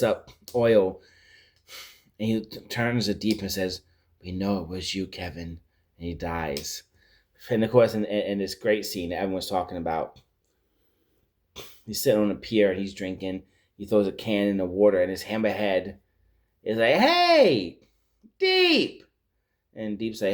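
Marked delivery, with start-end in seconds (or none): 4.2-5.6 low, fading murmur, much softer; dying fish's last words. Retold or imitated. Dying fish fingers Deep with last breath, weak murmur. 16.9-19.0 much higher cartoon voice calling out; hammerhead shark voice. Hammerhead calls to Deep.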